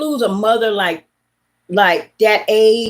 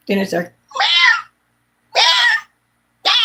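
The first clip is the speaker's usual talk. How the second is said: meows. Shown as a demonstration. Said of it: "Her meows went from".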